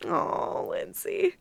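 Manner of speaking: soft breathy whisper; pitying whisper. Real, not acted. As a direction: sigh his name in pity.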